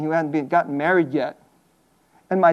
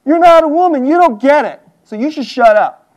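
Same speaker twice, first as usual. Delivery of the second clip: mock-indignant retort, pitched up; indignant heckler; 6 semitones higher, 4 dB louder than usual. Women in church to a man preaching this, mock-indignant high retort. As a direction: snap back at the preacher, hammed-up. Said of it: "you're like".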